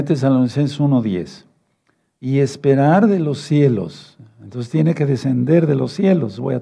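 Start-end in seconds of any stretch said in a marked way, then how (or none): 2.2-4.2 unhurried, word by word; slow reading. Shown as a demonstration. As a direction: read it out slowly, weighing each word. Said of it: "vamos a leerlo despacito". (lectura lenta y pausada)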